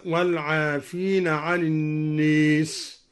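tilt the long a in الناس toward "ee", "an-nees"; slow recitation, الناس with a fronted long vowel; imala on الناس. Shown as a demonstration. Teacher gives a second imala example, الناس said "an-nees". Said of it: "وكذا قوله تعالى".

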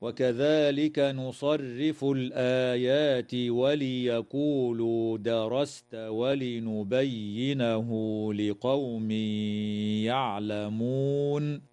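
slow measured tajweed chant; Quranic recitation. Shown as a demonstration. Tajweed teacher reciting the verse for students, slow chant. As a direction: intone the verse slowly and evenly. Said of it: "قوله تعالى".

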